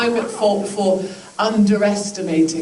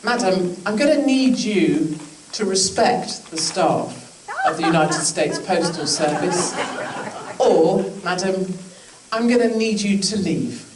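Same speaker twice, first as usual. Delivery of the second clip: stern telling-off. Acted. Acted telling-off of rude customer.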